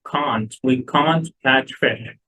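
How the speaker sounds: British accent, "can't" said with a long broad ah; British accent demo of can't. Shown as a demonstration. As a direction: show the British "can't" with an open ah, the t kept. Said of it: "هي British can't".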